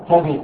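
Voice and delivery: "كذب" with a on the kaf and i in the next syllable; "كذب" pronounced ka-dhib; fatha then kasra. Shown as a demonstration. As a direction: say "كذب" as two syllables, kadhib. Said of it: "بفتح الكاف".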